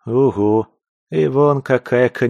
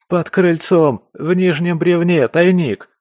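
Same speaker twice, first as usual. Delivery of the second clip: much higher, louder, slow panicked cry; terrified blurting; 8 semitones higher, 5 dB louder than usual. Acted. Captive to interrogator, terrified blurting. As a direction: blurt it out in terror.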